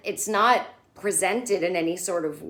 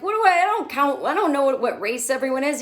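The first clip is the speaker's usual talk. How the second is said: fast, higher flustered protest; flustered Larry; 5 semitones higher, 3 dB louder, faster than usual. Retold or imitated. Larry protesting to the black couple, flustered and fast. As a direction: babble it out like a cornered guest.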